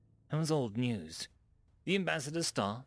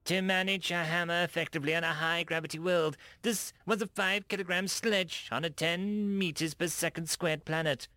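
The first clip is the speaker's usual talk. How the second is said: insistent alien envoy; 7 semitones higher, 4 dB louder than usual. A narrator's reading. Dak ambassador argues.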